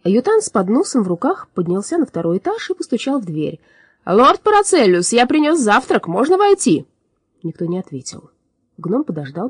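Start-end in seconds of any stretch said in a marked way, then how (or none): 4.0-6.9 high, loud servant call; timid gnome voice. Acted. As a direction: call through the door, high and eager. Gnom calls through the door.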